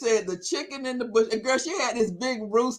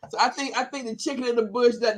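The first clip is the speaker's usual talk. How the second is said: ordinary delivery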